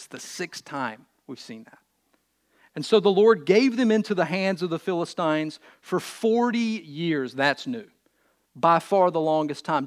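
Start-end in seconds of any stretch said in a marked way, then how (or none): 2.7-7.3 emphatic, projected Bible reading; scripture reading. Acted. Preacher to congregation, scripture reading. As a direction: read the verse out to the congregation.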